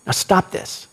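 firm little nudge. Shown as a demonstration. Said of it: "put a little oomph in it right at the end".

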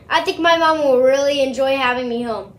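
dry, mock-enthusiastic sarcasm; sarcastic. Real, not acted. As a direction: say it sarcastically, meaning the opposite. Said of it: "that was sarcasm".

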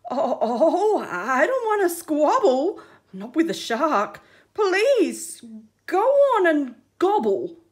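loud, nervous laughing plea. Acted. Octopus backs off nervously.

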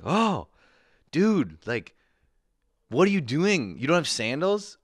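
high, pushed, incredulous nerdy friend. Retold or imitated. Nerdy friend shocked that I have no sandals, high and incredulous. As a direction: play the shocked know-it-all buddy. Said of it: "your nerdy Jewish friend goes like".

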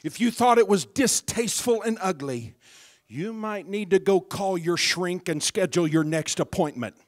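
loud, fervent preacher's cry; David shouting his praise; shouted taunt. Retold or imitated. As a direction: throw it at the doubters, full volume. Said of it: "he goes on to say something like".

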